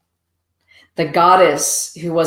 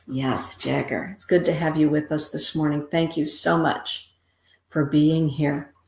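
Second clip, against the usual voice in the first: soft thanks; 6 dB quieter than usual. Real, not acted. Quiet personal thanks.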